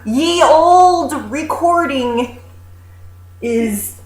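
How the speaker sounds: olde-fair sign-off with long pauses; mock herald. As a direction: announce grandly, then trail to near whisper. Mock herald ends the show.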